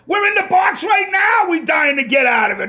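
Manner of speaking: bursting out against the plastic booth idea; ranting shout. Real, not acted.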